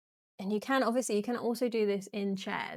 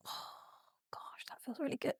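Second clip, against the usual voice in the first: whispering; 5 semitones higher, 12 dB quieter than usual. Real, not acted. Whispered during stretch.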